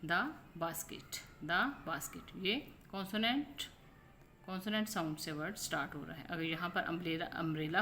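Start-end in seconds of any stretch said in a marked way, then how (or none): 0.0-2.4 "द basket" with "द" as a short "the"; weak "the" as in "द basket"; "the" before a consonant. Shown as a demonstration. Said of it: "जैसे ये देखें".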